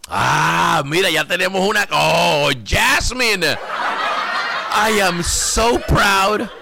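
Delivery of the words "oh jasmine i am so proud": mock proud teacher. Mock proud teacher praising viewer.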